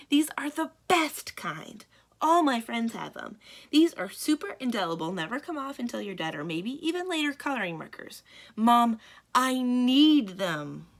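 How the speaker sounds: put-on whiny child pleading, dragging out the last words. Child begging her mother for new markers, whiny. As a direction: wheedle like a kid who wants it badly.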